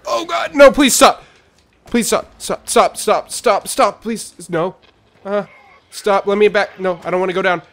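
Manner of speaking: shrill panicked begging, high and loud; terrified horror victim. Acted. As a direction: scream please stop over and over. Screaming on a scary ride.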